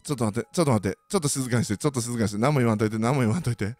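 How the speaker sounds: low, weak groggy voice, a mild imitation; half-hearted nauseous mumble; feeling sick. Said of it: "みたいな". (吐き気をこらえる低い声)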